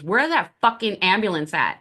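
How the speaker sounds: upset fireman. Retold or imitated. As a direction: imitate an upset fireman, lightly. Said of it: "I remember him getting upset".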